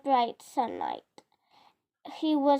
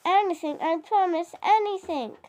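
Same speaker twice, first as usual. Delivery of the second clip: higher, louder begging dragon; pleading; 4 semitones higher, 4 dB louder than usual. Acted. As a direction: plead for mercy while being tickled. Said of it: "pleaded the dragon".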